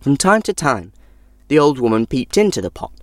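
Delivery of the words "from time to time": plain reading voice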